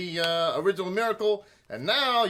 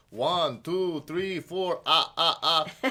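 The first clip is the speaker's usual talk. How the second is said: a hint of the Count counting; lightly voiced Count; 4 semitones lower, slower than usual. Repeating the Count's counting for the host, lightly voiced. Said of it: "the count guy".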